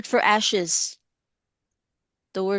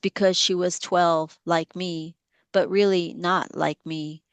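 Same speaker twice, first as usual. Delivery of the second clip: poem reading. Acted. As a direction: read the poem deliberately, letting lines land. Reads her poem aloud.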